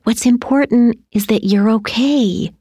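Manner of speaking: mild motherly concern; gentle. A narrator's reading. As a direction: reassure the child gently. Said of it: "she said gently".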